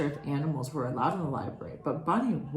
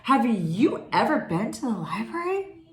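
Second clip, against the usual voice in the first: eager bunny; 4 semitones higher, 5 dB louder than usual. Acted. Bunny excitedly asking Porcupine.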